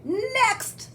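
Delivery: high parrot squawk; drawn-out, high bird call. A narrator's reading. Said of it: "squawked the bird".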